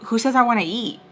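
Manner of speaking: mock bratty challenge, rising at the end; annoying. Daughter needling her father at the restaurant, annoying. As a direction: imitate a needling, repeated challenge. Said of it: "she is just being so annoying".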